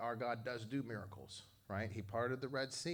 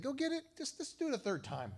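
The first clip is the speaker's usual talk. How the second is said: commanding; 13 semitones higher than usual. Retold or imitated. Elijah ordering the servants.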